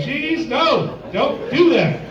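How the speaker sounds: squeaky mock alarm; alarmed protest. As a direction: act out a startled plea to stop. Acting his flustered protest.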